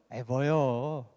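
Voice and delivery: low, pleased Chungcheong response; good-mood Chungcheong dialect. Shown as a demonstration. Preacher imitating the relocated pastor when pleased, good-mood Chungcheong dialect. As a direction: imitate easygoing contentment, pitched well down. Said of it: "기분 좋으면 어떻게 합니까".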